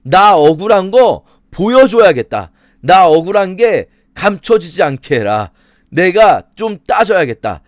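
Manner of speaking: acted, emphatic demand for justice; aggrieved Job. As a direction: press Job's case firmly.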